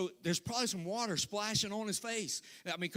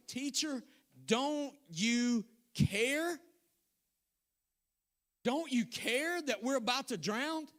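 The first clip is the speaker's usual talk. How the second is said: disciples crying out, pleading and raised; mock shout; 5 semitones higher, slower than usual. Disciples shouting at sleeping Jesus, pleading. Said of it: "The disciples woke him up shouting".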